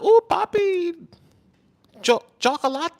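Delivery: very high, slow, swooning woman's voice. Retold or imitated. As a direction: coo it like a smitten girl. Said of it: "They gonna be like".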